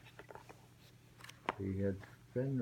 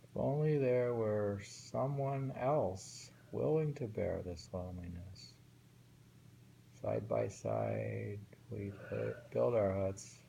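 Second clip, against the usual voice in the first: measured recitation of a waka; reading a winter poem aloud to a friend. Shown as a demonstration. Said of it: "rereads poem aloud".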